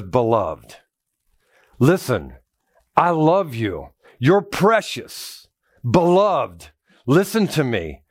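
a gentle, pleading beloved; lightly tender apostle's plea. Retold or imitated. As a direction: soften into a loving appeal. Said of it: "his tone changes just a little bit".

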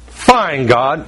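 grudging retold surrender, falling away; hard attitude. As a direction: give in with a bad attitude. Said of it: "This is a hard attitude".

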